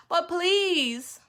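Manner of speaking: put-on high begging child's plea; pleading boy. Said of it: "said the boy".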